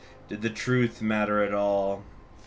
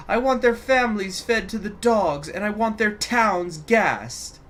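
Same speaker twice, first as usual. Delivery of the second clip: higher, louder ranting decree; emphatic fury; 12 semitones higher, 6 dB louder than usual. Acted. The regent orders purges of every disloyal soldier, emphatic rage. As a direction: pound each demand like a fist on the chest. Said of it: "Emphatically, he beat his fist".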